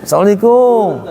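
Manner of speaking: high, arching KUM falling away; long local greeting. Shown as a demonstration. Teacher mimics locals' greeting, high swooping KUM. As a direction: sing out the salam, swooping on KUM. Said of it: "kadang gitu tuh".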